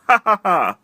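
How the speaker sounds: loud high laugh. Real, not acted. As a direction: burst out laughing. Laughing at the joke.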